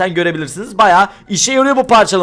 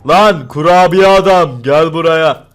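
mock-menacing call; 5 semitones lower, 3 dB louder, slower than usual. Calls out threateningly to cookie man.

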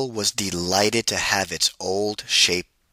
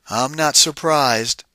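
knowing shapeshifter; 5 semitones higher, 5 dB louder than usual. Acted. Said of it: "said the shapeshifter".

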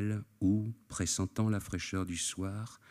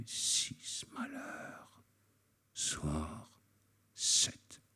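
muttered through teeth; much slower than usual. A narrator's reading. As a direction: mumble the count to himself, fading to a whisper. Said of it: "il marmonna les dents serrées". (marmonné entre les dents, jusqu'au chuchotement)

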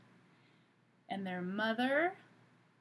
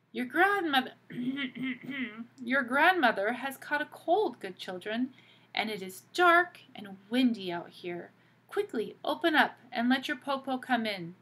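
cunning wolf voice; 3 semitones higher, 5 dB louder than usual. Acted. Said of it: "the cunning wolf said".

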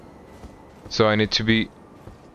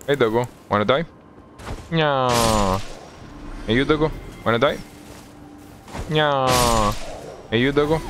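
playful taunting; 4 semitones higher, faster than usual. Pretend. Taunting enemy dogs playfully.

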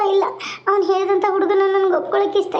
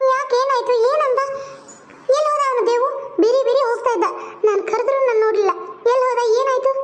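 higher, anxious questioning voice; lightly raised worried sister voice; concerned elder sister; 4 semitones higher than usual. Acted. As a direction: press her gently for what happened.

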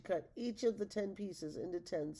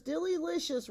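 high sing-song repeat, a bit softer; raving delight, softer echo; 11 semitones higher, 5 dB louder than usual. Acted. Ogres at the feast drumming spoons, echoing cheer. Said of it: "raved the ogres".

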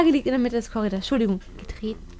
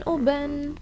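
ordinary talk

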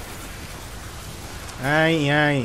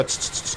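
shushing; 11 dB quieter than usual. Retold or imitated.

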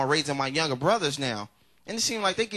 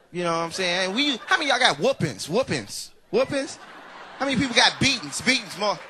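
ordinary talk

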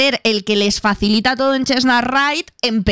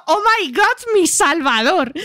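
high, slow swooning sigh; swooning Rose; 5 semitones higher, slower than usual. Acted. Rose to her rescuer David, high swoon. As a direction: melt over your rescuer.

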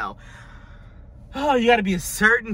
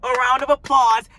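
quoting a singer; 5 semitones higher, 4 dB louder than usual. Retold or imitated. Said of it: "She said".

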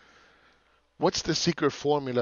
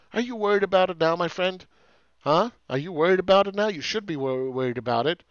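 loud taunt; 6 semitones higher, 8 dB louder than usual. Real, not acted. Taunting the buyers after crash.

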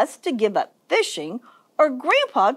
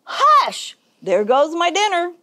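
high yelled hush, staying raised; yelled complaint; 6 semitones higher, 3 dB louder than usual. A narrator's reading. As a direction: yell it as the cat losing dinner. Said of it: "Gus yelled".

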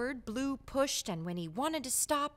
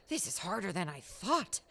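mild huff; 5 semitones lower than usual. Acted. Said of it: "he said with a huff".

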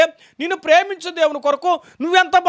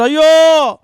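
louder lament of woe; loud woe cry; 7 dB louder, much slower than usual. Acted. Preacher crying out woe over the sinners, loud.

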